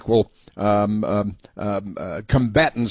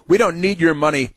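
mocking read; 6 semitones higher than usual.

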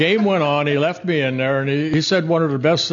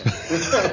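short laugh; 4 semitones higher, 4 dB quieter than usual. Real, not acted. Laughs mid-sentence.

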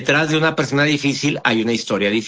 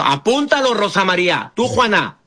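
calling out; 4 semitones higher than usual. Real, not acted. Calling out to audience to take notes.

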